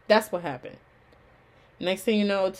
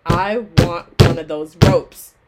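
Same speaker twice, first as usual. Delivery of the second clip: longing; 12 dB louder, much slower than usual. Retold or imitated. Longing at graduation honor table.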